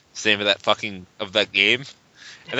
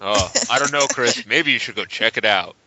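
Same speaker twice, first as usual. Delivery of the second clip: bad acting; 3 semitones lower than usual. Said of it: "this acting is terrible".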